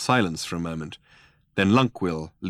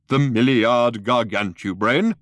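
contemptuous; 4 semitones higher, 6 dB louder than usual. A narrator's reading. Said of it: "with unconcealed contempt".

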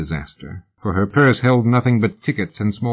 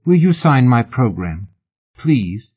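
lightly voiced eager admirer, a touch higher; eager fan; 3 semitones higher than usual. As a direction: gush a little as an autograph hunter. Fan asks lady for autograph.

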